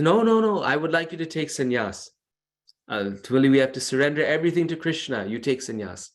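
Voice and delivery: a teacher overruling a disciple's refusal; insistent guru. Retold or imitated. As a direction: devotee retelling his guru insisting firmly. Guru insists disciple take sannyas.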